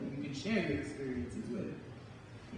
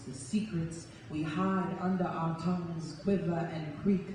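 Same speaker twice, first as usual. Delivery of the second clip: spoken word poem; slower than usual. Acted. Poet performing her poem for the audience, rhythmic and emphatic. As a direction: perform it like a slam poem, leaning on each image.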